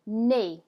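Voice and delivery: "nez" as "nay", Z silent; French pronunciation. Shown as a demonstration. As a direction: model "nez" to rhyme with English play. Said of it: "So it's pronounced nez".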